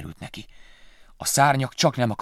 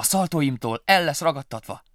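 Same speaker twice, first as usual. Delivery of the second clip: bright excited little mouse voice, higher and louder; happy cry; 6 semitones higher, 6 dB louder than usual. Acted. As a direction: call out proudly to mama. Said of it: "kiáltotta boldogan".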